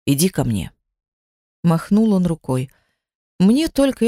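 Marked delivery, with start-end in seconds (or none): 0.1-0.7 low tender call. A narrator's reading. Husband by the fire calling his wife over, tender and low. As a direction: draw her close gently.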